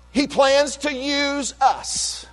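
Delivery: emphatic preaching. Real, not acted. Pastor proclaiming to his congregation, slow and emphatic. Pastor stresses God's plan for believers.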